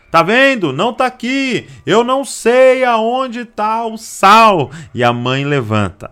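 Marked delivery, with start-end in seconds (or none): 0.1-4.7 much higher, louder shout, stretched out slowly. Retold or imitated. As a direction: yell it triumphantly slow. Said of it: "Ele grita". (filho gritando em voz bem aguda)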